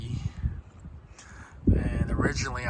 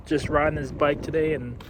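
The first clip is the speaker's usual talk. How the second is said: riding in wind; 3 semitones higher, 6 dB louder than usual. Real, not acted. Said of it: "Sorry for the wind".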